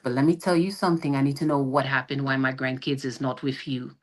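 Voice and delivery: a hint of a stern island parent laying down demands; island mother. Island mother calling her daughter about missing grandkids, lightly imitated insistence. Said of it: "you know, island parents".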